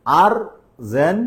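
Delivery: আর্জেন্টিনা said slowly, syllable by syllable. Shown as a demonstration. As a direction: spell out আর্জেন্টিনা in slow beats. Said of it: "এবার দেখো আর্জেন্টিনা".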